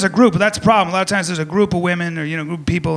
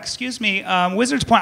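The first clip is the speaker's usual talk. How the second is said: nerdy correction. Retold or imitated. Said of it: "don't come up to me after the show like".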